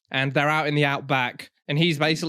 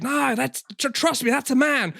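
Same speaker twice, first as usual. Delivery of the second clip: put-on Italian accent; 9 semitones higher than usual. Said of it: "He's like".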